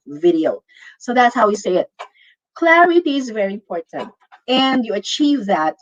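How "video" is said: "Video" as vi-dee-yo; three-syllable "Video"; Y before the O. Shown as a demonstration. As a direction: glide from ee into o in "Video". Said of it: "Y before the O".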